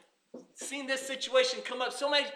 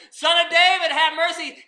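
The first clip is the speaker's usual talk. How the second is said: pleading woman; 6 semitones higher, 7 dB louder than usual. Retold or imitated. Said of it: "She is crying".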